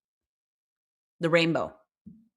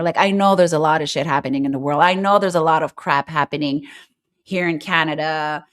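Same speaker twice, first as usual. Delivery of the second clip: fast loud rant; 5 dB louder than usual. Real, not acted. Ranting to viewers about news.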